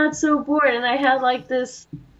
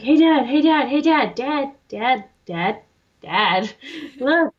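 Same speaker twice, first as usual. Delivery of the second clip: put-on pestering child. Kid pestering dad retold.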